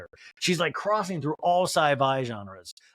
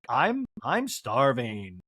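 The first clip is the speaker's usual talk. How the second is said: slow, lower, drawn-out complaint; mock starving; 5 semitones lower, much slower than usual. Lisa in the middle of the fight, mock-desperate hunger. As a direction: imitate a dragged-out hungry moan.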